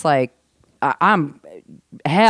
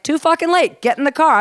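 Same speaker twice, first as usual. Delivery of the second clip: mock bossy friend; 9 semitones higher than usual. Tom ordering her into the car, in a mock bossy higher voice. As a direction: bark it like a pushy buddy. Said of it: "He's like".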